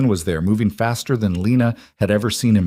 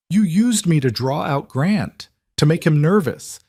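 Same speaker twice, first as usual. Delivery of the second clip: angry accusation; 8 semitones higher than usual. A narrator's reading. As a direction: spell out his betrayal. Lena furious at Lucian.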